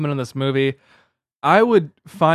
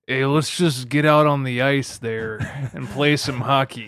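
Kurt Russell impression; slower than usual. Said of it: "Kurt Russell from the movie Miracle".

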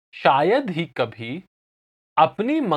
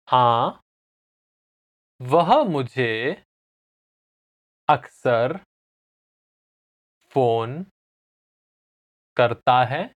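slow repeat-after-me answer; long pauses between the words; slowly; 2 semitones lower than usual. Shown as a demonstration. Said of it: "I'll say it again slowly".

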